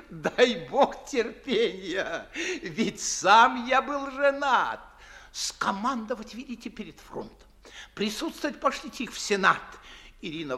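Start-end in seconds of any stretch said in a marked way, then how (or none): 0.1-4.8 chuckling through the words; laughing. Acted. Old gentleman joking about his married days, chuckling. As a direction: laugh at your own joke.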